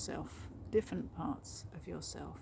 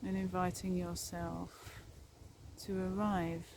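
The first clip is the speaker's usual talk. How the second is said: calm meditation guide with long pauses; guided meditation. Real, not acted. Guiding listeners along a forest path, guided meditation voice. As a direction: lead them gently inward, leaving space after each phrase.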